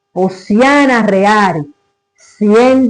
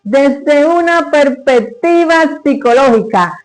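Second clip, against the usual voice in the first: raised, emphatic presenter voice; stage announcement; 4 semitones higher than usual. Acted. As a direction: announce the performer and the piece proudly to an audience. Announces herself and the piece.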